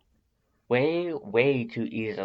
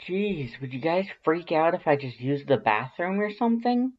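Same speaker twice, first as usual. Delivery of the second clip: defensive dodge; 7 semitones higher than usual. A narrator's reading.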